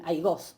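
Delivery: aigos stressed on the last syllable, GOS; acento final. Shown as a demonstration. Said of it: "en el genitivo está". (aigos con acento en la última sílaba, GOS)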